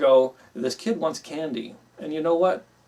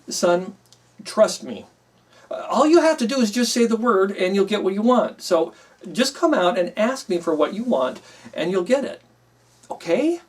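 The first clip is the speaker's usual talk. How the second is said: reassuring dad; 5 semitones higher, 4 dB louder than usual. Retold or imitated. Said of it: "I wanted to instill confidence in him".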